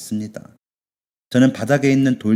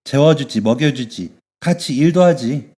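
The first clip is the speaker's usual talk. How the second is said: higher, louder, slow emphatic claim; insistent motherly boss; 3 semitones higher, 5 dB louder than usual. Acted. Bathhouse owner telling the girl she is her guardian, firm and caring.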